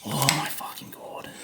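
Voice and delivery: exasperated groan. Real, not acted. Fiddly part frustrating him.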